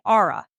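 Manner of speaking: "ara" said as two syllables, ah-ruh; Southern extra syllable. Shown as a demonstration. Lawyer showing how Southerners say R, with an extra syllable. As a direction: draws the letter R out into "ara". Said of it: "they say".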